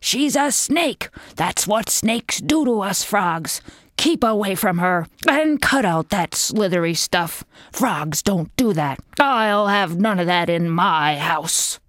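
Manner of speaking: a hint of an alarmed mother; stern mother frog. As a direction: lay down the law to your child. Mother Frog scolds her son.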